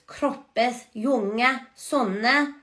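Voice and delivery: put-on "kroppes" said krop-pes, "younge" young-uh, "sonne" son-nuh; final e sounded. Shown as a demonstration. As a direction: voice the E at the end of "younge". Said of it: "the E at the end of these words".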